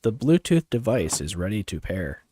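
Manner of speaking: robot voice. Shown as a demonstration. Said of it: "I'll use my deeper voice".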